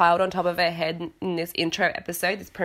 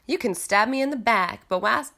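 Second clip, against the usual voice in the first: put-on Southern accent; 4 semitones higher than usual. Host trying out Lisa's tagline, Southern accent. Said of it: "I don't know why she's Southern".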